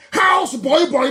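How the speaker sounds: slow, loud mocking jeer; slow loud taunt; scornful shout. Real, not acted. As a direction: shout the insult slowly with scorn.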